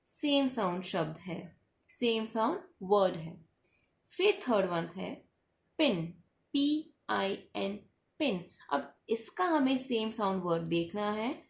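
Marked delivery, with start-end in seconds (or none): 5.8-8.4 slow spelling. Shown as a demonstration. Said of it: "spells letters slowly".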